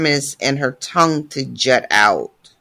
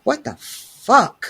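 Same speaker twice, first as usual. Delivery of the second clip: shocked what the fuck; 8 semitones higher, slower than usual. Retold or imitated. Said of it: "he is like".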